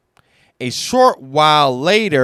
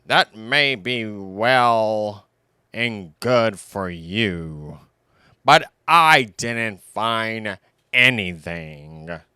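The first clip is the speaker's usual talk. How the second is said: lightly voiced grumbling owl; 2 semitones lower than usual. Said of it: "Owl grumbled".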